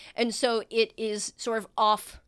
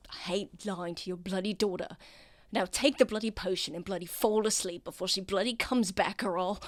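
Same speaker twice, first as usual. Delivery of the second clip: angry whisper. Acted. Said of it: "Why do you sound so angry?".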